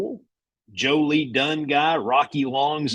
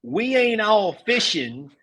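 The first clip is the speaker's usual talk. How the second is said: Coach Donnelly impression; 7 semitones higher than usual. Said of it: "So that's Coach Donnelly".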